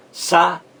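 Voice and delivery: saíste split into sa, ís, te with pauses; syllable by syllable. Shown as a demonstration. Teacher saying veja aí, saíste broken syllable by syllable. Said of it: "veja aí".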